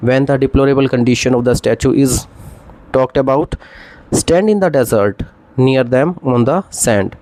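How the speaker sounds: very slow, measured recital of the line; slow classroom recitation; slow poem reading. Shown as a demonstration. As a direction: read it out like a poem. Teacher quotes Shelley slowly.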